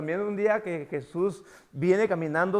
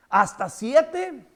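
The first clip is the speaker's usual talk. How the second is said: drawn-out proud question; 6 semitones higher, 6 dB louder, much slower than usual. Retold or imitated. Preacher voicing Peter's question to Jesus, slow and emphatic. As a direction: stretch out "¿Hasta siete?" slowly, higher and louder.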